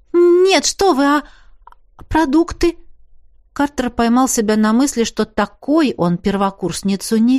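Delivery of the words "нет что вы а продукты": eager protest. Acted.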